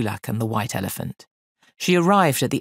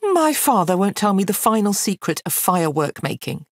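higher, aggrieved complaint; frustrated girl; 6 semitones higher, 4 dB louder than usual. Acted. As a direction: complain about an unfair father. Girl complains about her father.

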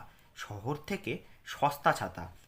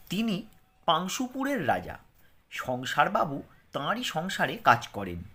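slow reading aloud; slower than usual. Shown as a demonstration. Reads primer text aloud slowly.

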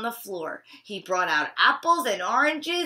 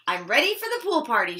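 excited exclaim; much faster than usual. Acted. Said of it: "she exclaimed".

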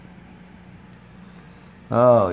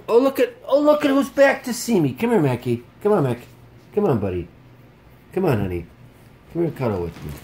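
much higher, cooing pet voice, fading toward the end; 10 semitones higher, 7 dB louder, faster than usual. Real, not acted. Greeting his dog Mackie.

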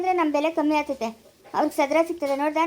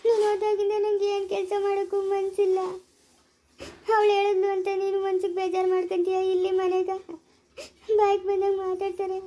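tearful; 3 semitones higher than usual. Acted. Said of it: "ಯಾಕೆ ಅಳ್ತಾ ಇರೋದು ನೀನು?".

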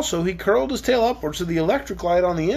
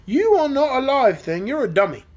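dragon voice; 6 semitones higher, 4 dB louder than usual. Acted. Dragon telling the children about his ancestor, lightly voiced. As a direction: play the dragon, grumbling about his grandpa. Dragon insults Tick-Tock.

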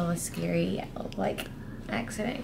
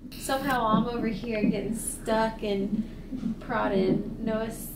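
laughing; 2 semitones higher, 3 dB louder, slower than usual. Real, not acted. Laughing at husband's football.

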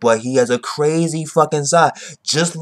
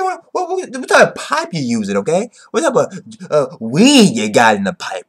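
mock rant; 4 semitones higher, 5 dB louder than usual. Continuing Ichibei rant.

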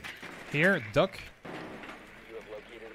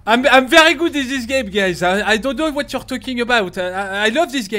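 loud mock boast; 2 semitones higher, 9 dB louder than usual. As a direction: brag loudly in French-accented English. Boasting to teammates in English.

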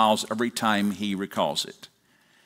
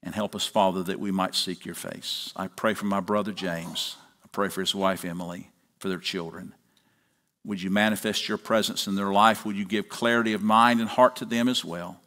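public prayer; 3 semitones lower than usual. Acted. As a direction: lead the congregation in prayer, settling into a hushed amen. Pastor leads congregation in prayer.

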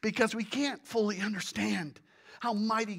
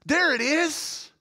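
loud, drawn-out ah of discovery; as if it just dawned on you; acted-out moment of revelation; sudden realization; 3 semitones higher, 5 dB louder, slower than usual. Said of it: "when something dawns on us".

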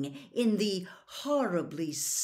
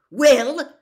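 loud, high, rising demand; outraged teacher's opening shot; furious demand; 8 semitones higher, 16 dB louder than usual. A narrator's reading. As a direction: demand an answer in a rage. Enraged teacher opens telling-off.

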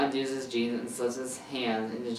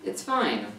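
forced through gritted teeth; tight-jawed, teeth clenched; 4 semitones higher than usual. Acted. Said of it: "talks through his gritted teeth".

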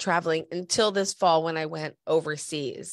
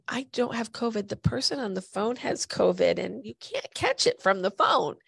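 exasperated; 6 semitones higher than usual. Retold or imitated. Retelling her own retort.

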